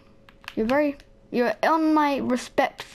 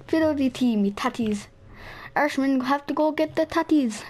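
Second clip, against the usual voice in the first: hammed-up Irish accent; jokey stage Irish accent; put-on Irish accent; 2 semitones higher than usual. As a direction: play up a crude Irish accent. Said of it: "It's me Irish accent".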